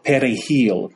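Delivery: "perejil" in Spanish, R tapped and J breathed. Shown as a demonstration. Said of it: "with that R that sounds like a D and that J that sounds like an H".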